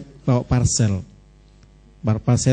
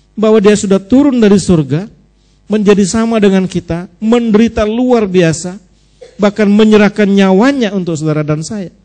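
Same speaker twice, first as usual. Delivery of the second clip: louder, emphatic sermon delivery; impassioned preaching; 5 semitones higher, 6 dB louder than usual. Real, not acted. Preacher telling of Christ's sacrifice, impassioned. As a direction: drive each phrase home to the congregation.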